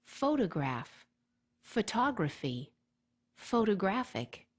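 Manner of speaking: "photograph" stressed on PHO, "photography" on TOG, "photographic" on GRAPH; shifting word stress demo. Shown as a demonstration. Teacher contrasts the stress across a word family for students, in a deliberate demo voice. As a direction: move the stress along the word family, one word at a time. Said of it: "For instance".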